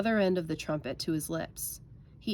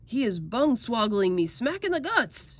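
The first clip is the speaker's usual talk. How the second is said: loud, high cry of complaint; outraged shout; 5 semitones higher, 5 dB louder than usual. A narrator's reading. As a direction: shout it as if just kicked awake. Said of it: "shouted the gizzard gulper".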